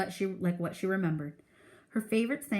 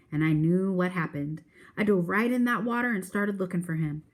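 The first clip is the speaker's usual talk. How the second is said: put-on louder, quicker old man telling his big rescue; animated storytelling; 3 dB louder than usual. Old man telling the boys how he saved his dog, animated and louder. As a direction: build the tale with pride.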